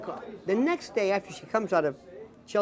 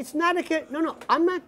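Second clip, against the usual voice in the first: insistent denial; 9 semitones higher than usual. Retold or imitated. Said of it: "They say".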